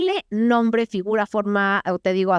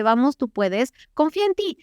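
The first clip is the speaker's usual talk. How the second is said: encouraging inner voice; 2 semitones higher than usual. Retold or imitated. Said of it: "aparece la voz de mi conciencia que me dice".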